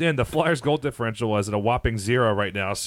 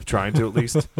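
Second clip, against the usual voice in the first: words broken by laughter; laughing; 3 dB louder, slower than usual. Real, not acted. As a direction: chuckle through the line. Laughing through a joke.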